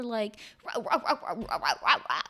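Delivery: imitated DJ scratching noises; vocal turntable scratch; record-scratch imitation. Shown as a demonstration. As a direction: scratch the disc with your voice, rah-rah. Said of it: "that's what I was going for".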